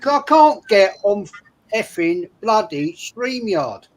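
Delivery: slow down hard on the swearing, acting fed up; mock-frustrated outburst to a partner; retold exasperation. Retold row with wife, frustrated.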